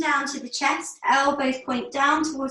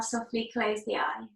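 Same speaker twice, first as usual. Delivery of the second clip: soft unvoiced whisper; 5 dB quieter than usual. Real, not acted. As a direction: breathe the words out softly. Guiding eyes closed in meditation.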